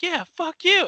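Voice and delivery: very high, loud mock yell; dad yelling. Dad yelling the same thing out the window, loud. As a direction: shout it like the dad joining in. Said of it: "yells the same thing".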